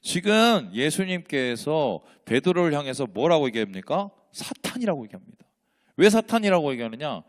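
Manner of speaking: usual speaking voice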